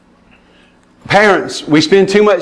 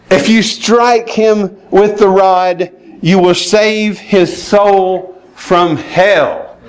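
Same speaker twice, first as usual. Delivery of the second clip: very slow, weighty verse reading; solemn scripture reading; 2 semitones higher, much slower than usual. Acted. Preacher reading Proverbs to parents, slow and solemn. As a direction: lean on every word of the verse. Reads scripture slowly, emphatically.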